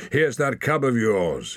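mildly booming, pitch lifted. A narrator's reading. Man returns the wolf cub to the boy, mildly booming. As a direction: call it out heartily. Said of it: "he boomed".

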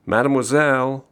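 high, loud repeated summons; calling out. A narrator's reading. Customer to waitress pretending not to hear, calling out. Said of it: "he called again".

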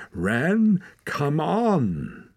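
high, loud, urgent plea; urgent calling. A narrator's reading. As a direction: call out to rouse someone fading. Urging her to stay awake.

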